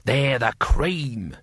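slow, drawn-out exasperation; long-suffering sighed delivery; weary sigh. Acted. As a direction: draw it out with resigned dismay. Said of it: "Rincewind sighed".

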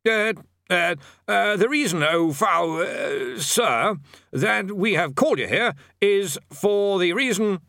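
high, nervous stammering bursar; flustered stammer. A narrator's reading. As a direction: stumble over it, flustered.

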